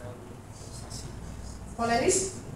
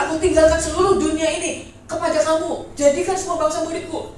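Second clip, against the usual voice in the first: commanding charge to followers, raised voice; Tuhan Yesus; 4 semitones higher, 6 dB louder than usual. Acted. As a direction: send them out with loud, higher authority. Acts Jesus commissioning the disciples.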